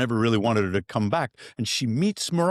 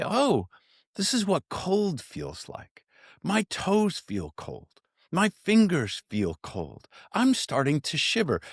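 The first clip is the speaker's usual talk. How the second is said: calm self-talk; 4 semitones higher than usual. Pretend. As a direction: narrate the cold gently and without judgment. Voicing calm self-narration in ice bath.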